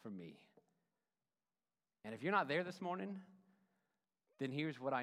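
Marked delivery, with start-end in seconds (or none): 0.0-0.4 calm surrender. Pretend. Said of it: "To say".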